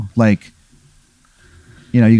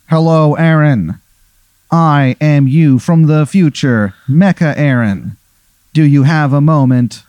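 slow, measured, raised greeting; slow future self; 3 semitones higher than usual. Acted. Future cyborg self introducing himself slowly and formally. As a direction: announce yourself deliberately. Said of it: "he goes".

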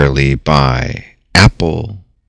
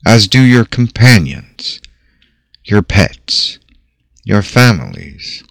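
guided meditation. Acted. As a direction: paint the picture gently for listeners. Leads a guided visualization.

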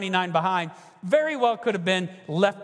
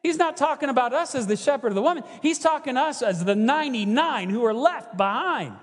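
higher, fast rush of dawning alarm; the Pharisees catching on, alarmed realization; startled realization; 5 semitones higher than usual. Retold or imitated. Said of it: "these Pharisees do".

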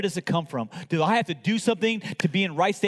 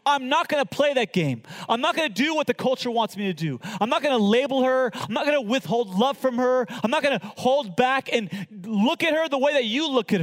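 defiant Jesus; 3 semitones higher than usual. Acted. Jesus voiced defying the accusers.

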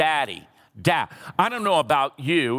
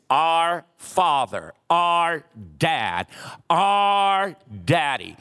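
reverent, slow; slower than usual. Shown as a demonstration. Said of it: "the greatest prayer that you and I can ever pray".

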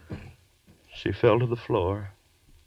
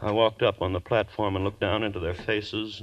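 ordinary talk, nothing marked

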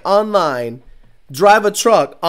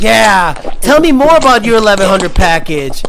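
louder eager sucker; hammed-up gullible fan; mock eager dupe; 8 dB louder than usual. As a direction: beg for more like a fool. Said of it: "And you're like".

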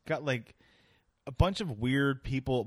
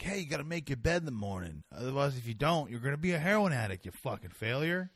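a hint of a drill-sergeant voice, fast; lightly voiced tough-talking officer; mocking Navy general. Host mocking an Instagram Navy general to his guest, lightly voiced drill talk. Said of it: "the Navy general guy".

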